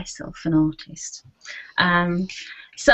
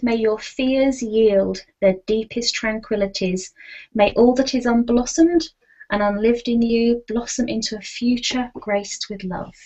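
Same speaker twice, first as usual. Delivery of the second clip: poem reading. Acted. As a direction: read it like a blessing. Reads her poem aloud.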